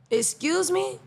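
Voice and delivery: sassy disbelief; indignant excuse me. Real, not acted. Reacting to the cheerleader TikTok, indignant. Outrage at cheerleader food rule.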